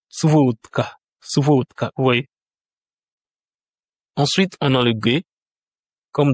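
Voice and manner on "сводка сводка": Suvodka said "SVOT-ka"; D pronounced T. Shown as a demonstration. Teacher shows it sounds T naturally, D pronounced T. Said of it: "ça sonne T naturellement".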